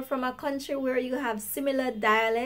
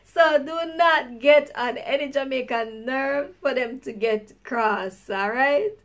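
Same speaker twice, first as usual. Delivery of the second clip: laughing warning; 2 semitones higher, 6 dB louder than usual. Real, not acted. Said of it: "laughing warning after DJ quote".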